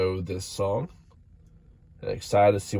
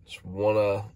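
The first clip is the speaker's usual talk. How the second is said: stuffy, nasal voice; nasal from a cold. Real, not acted. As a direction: talk through a blocked nose. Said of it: "I might sound a little nasally 'cause I am".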